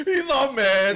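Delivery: slow words through laughter; amused, laughing it out. Real, not acted. Laughing at the retold anger.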